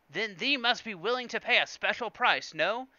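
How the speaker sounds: high, loud haggling merchant in a fake accent; hammed-up alien dealer pushing for a price; Watto. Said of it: "Apparently Watto's voice".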